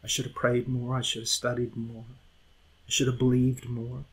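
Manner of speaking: put-on regretful old men. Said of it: "had regrets".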